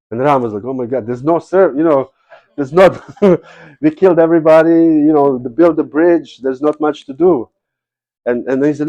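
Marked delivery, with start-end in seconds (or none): 0.6-7.5 high, louder, laughing through the words; amused laughing voice; amused Ram. Retold or imitated. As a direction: chuckle at the absurd request. Ram laughingly refuses Hanuman.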